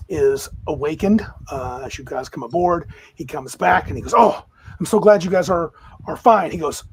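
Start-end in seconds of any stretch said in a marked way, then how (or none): 4.2-6.5 loud, relieved exclamation; glad, forceful welcome; relieved greeting. Acted. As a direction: greet the returning crew with a burst of relief. Character greets returning party with relief.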